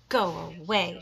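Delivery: loud grouchy shout; angry ladybug yelling. Acted. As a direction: bark it at the other bug. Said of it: "shouted the grouchy ladybug".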